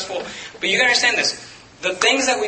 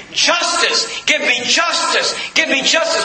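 demanding justice; 4 semitones higher, slower than usual. Acted. Blood voiced demanding justice.

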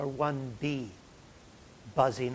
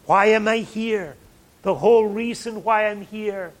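much louder, higher preaching shout; impassioned outcry; 7 semitones higher, 13 dB louder than usual. Acted. Preacher voicing Jesus facing the cross, impassioned shout. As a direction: thunder it out in Jesus' person.

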